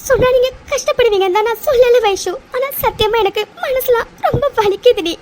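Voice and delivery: tearful with a broken laugh; hurting girl weeping to her absent friend; crying. Acted. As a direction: sob through the confession. Confessing hidden pain while crying.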